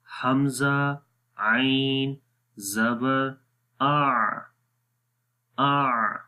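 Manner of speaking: आ said from the throat with full voiced strength; ain with jahr. Shown as a demonstration. Teacher showing the voiced quality of ain. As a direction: voice the आ firmly, breath held back. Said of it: "तो इसको पढ़ते हैं".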